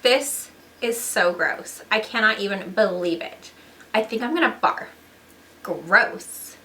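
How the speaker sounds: lightly voiced disgusted teen girl. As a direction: sneer it out, grossed out. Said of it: "it's me, Disgust".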